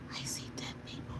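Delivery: breathy whisper; whispered quote. Retold or imitated. Streamer jokingly quoting a rapper. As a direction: breathe the words.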